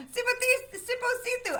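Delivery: Sipo Situ drawn out slowly, each syllable apart; slow it right down on Sipo Situ. Shown as a demonstration. Reader sounding out a hard name slowly. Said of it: "I gotta say it slower".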